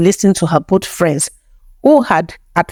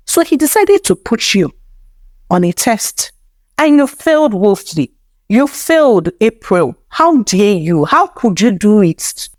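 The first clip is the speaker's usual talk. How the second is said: accusing; 4 semitones higher than usual. Acted. Alfred accusing April.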